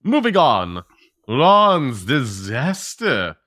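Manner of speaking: drawn-out, sing-out segue; topic announcement. Real, not acted. Host moving on to the next topic, drawn-out announcement. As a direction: declare the next segment with slow relish.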